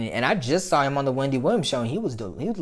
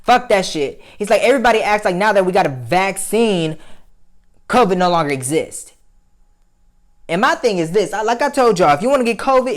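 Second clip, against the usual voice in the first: much higher, louder heated tirade; angry rant; 9 semitones higher, 7 dB louder than usual. Real, not acted. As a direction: vent with real fury. Ranting about covid parties.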